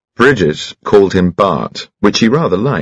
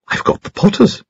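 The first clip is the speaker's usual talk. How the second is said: put-on very high, piping chatty old gentleman; cheerful little squeaky voice; high-pitched Bunchy. Old friend greets Troy at the gallery, high piping chatter.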